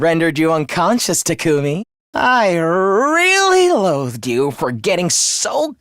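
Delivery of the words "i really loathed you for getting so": slow, heavily stretched contempt; drawn-out loathing. Acted. Villain telling Takumi how he resented him, drawn-out loathing. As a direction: draw out the words with disgust.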